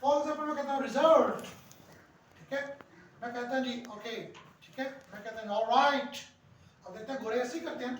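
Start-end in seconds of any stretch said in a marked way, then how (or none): 0.8-1.4 रिजल्ट said loud with a clear pitch fall; रिजल्ट punched loud and falling; stressed pitch demo. Shown as a demonstration. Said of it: "low pitch या high pitch करते हैं". 5.6-6.1 ऑलराइट said louder with a falling pitch; ऑलराइट stressed loud and dropping; stressed pitch demo. Shown as a demonstration. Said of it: "low pitch या high pitch करते हैं".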